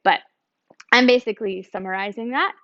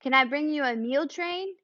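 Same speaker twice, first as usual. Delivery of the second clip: mock cheery call down; 5 semitones higher, 3 dB quieter than usual. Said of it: "it's not yelling down".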